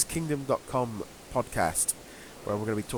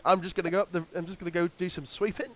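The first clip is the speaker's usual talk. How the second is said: Cockney; 4 semitones higher, 3 dB quieter, faster than usual. Pretend. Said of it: "English Cockney person".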